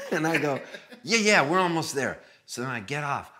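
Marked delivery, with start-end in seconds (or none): 1.0-2.2 high, loud brush-off; mock reassurance. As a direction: wave the question away, voice raised. Covering up being hopelessly lost.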